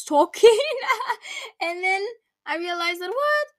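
laughing, pitch jumping up; real laugh. Real, not acted. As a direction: laugh at the disaster. Laughing at lost recording.

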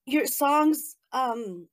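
moved, voice welling up a little; touched while remembering, holding it together; emotional. Real, not acted. Fan thanking a songwriter, emotional. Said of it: "I'm getting all emotional".

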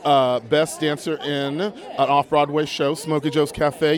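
upbeat red carpet host patter; bubbly entertainment reporter, slowing on the title; gushing red carpet chatter. Acted.

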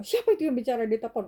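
boss asking. Retold or imitated. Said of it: "bos saya bilang gitu".

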